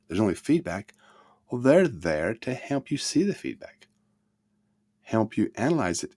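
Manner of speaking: ordinary talk, nothing marked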